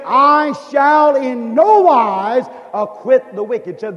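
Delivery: slow, weighty divine decree; a lightly voiced stern God. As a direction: pronounce it slowly like God himself. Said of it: "He said".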